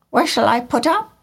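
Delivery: high, fast bird voice; swallow's voice. A narrator's reading. Swallow arriving in the city at night, high and quick. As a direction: wonder aloud briskly. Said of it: "he said".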